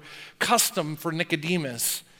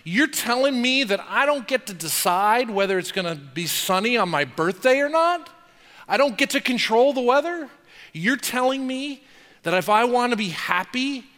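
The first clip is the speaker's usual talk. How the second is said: raised, incredulous protest, pitch climbing; mock indignation; 5 semitones higher, 3 dB louder than usual. Preacher mimics a believer protesting to God, incredulous. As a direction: play the outraged believer demanding control.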